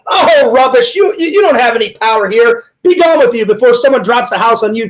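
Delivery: lightly acted, scornful movie quote; dismissive movie character. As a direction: wave the threat away, a hint of theatre. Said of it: "And she's like".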